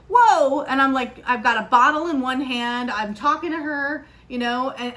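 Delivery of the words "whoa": mock startled whoa.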